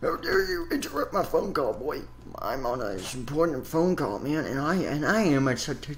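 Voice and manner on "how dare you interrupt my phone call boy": high, put-on indignant man; high outraged voice. Phone man scolds the boy for interrupting his call, high-pitched.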